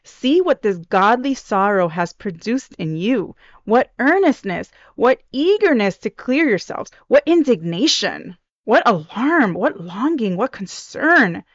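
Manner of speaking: lilting, emphatic words of encouragement; happy, uplifting. Acted. Paul praising the repentant Corinthian church, happy and uplifting. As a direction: lift them up with each rising, swooping phrase. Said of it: "he's happy and he's, like, you know, lifting them up".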